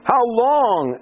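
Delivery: high, drawn-out lament, not shouted; crying out. Retold or imitated. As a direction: cry it upward like a sufferer's plea. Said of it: "he suffered so long that he cries out".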